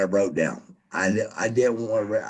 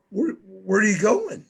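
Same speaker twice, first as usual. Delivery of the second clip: high, nagging mock voices of the crowd; 10 semitones higher, faster than usual. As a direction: pitch it up like a teasing crowd. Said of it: "everybody's gonna go".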